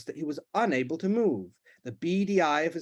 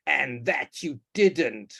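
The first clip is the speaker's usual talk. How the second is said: slow sneer; much slower than usual. Acted. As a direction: drag out the contempt. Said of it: "sneered his father".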